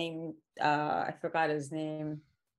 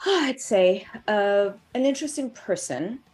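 show host intro; 7 dB louder than usual. Acted. Announces show and guest.

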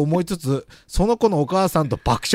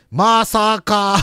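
slow drawn-out cry; much slower than usual. Retold or imitated. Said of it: "と叫び".

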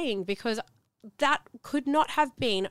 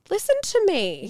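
firm self-talk; 10 semitones higher, 5 dB louder than usual. Retold or imitated. Acted stern self-talk retold.

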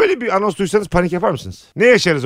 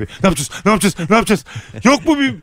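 panicked pleading; faster than usual. Pretend. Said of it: "falan diye böyle bütün koltuklara yalvarırım".

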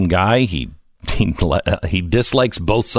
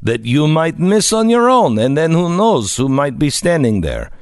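lively, slightly raised sponsor read; radio ad read; 5 semitones higher than usual. Acted. Host urging listeners to join LifeLock, ad read. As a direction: sell it briskly to the listeners.

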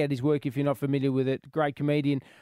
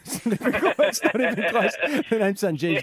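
laughing; 4 semitones higher than usual. Real, not acted. Host laughing at his own joke.

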